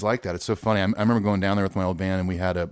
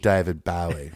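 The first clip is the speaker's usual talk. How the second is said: put-on "David Bowie" in an Australian accent, Dai-vid; Australian-style rendering of the singer's name; slower than usual. Co-host mimics the name in an Australian accent. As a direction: say "David Bowie" Australian, DAY turning to DIE. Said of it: "heard him call David Bowie, David Bowie".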